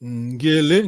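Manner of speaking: Ngele said clearly with ng onset and rising end; teacher's model ngele. Shown as a demonstration. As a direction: model Ngele with a velar nasal start. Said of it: "ngele is a verb".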